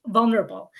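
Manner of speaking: "vulnerable" set apart after a pause, firmly emphasized; stress on vulnerable. Real, not acted. Speaker urging new parents to open up, stressing "vulnerable". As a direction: land on "vulnerable" as the key word. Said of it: "I can't stress the word enough".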